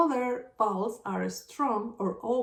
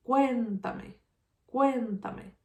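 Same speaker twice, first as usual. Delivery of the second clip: "cuéntame" with a long, strong "cuén"; stress on first syllable; 2 semitones higher, slower than usual. Shown as a demonstration. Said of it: "where is the strongest sound?".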